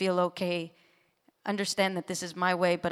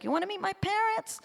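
high, playful stage announcer voice; mock emcee call to the audience; showman call; 14 semitones higher than usual. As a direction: tease the crowd like a host. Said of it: "I was like".

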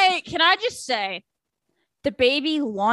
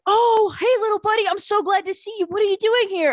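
imitating happy Din; 8 semitones higher than usual. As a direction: play Din overjoyed to see his kid. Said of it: "Din was like".

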